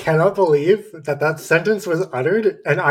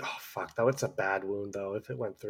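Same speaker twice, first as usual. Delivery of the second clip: muttered aside; 9 semitones lower, 17 dB quieter, faster than usual. Real, not acted. Aside muttered under breath.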